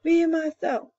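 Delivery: high, proud roared boast; chest-out lion roar. A narrator's reading. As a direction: roar it out like a proud king of beasts. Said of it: "He roared just once".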